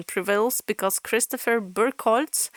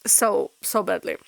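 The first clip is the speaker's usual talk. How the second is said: getting teary. Real, not acted. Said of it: "I'm getting teary".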